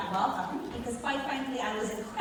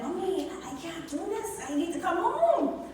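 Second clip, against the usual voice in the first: retold crying plea; 7 semitones higher than usual. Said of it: "the tears are flowing".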